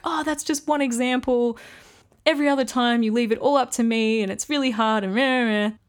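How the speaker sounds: mock-whine like a sulky little kid; whiny inner toddler. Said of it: "the toddler inside of me just wanted to be like".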